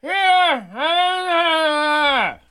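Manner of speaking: comic Jesus calling down to Peter from the cross; Jesus crying out. Acted. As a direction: stretch out a booming, high hallelujah from the cross. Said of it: "And Jesus goes".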